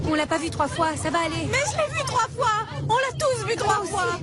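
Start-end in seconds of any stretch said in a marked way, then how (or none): 1.5-4.2 hysterical panic. Acted. Hysteria after the sightings.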